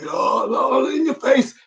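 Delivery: high, strained yell in imitation; mock preacher yell. Retelling a motivational speaker, mock high-pitched yell. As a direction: imitate a preacher yelling in your face. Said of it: "he's yelling".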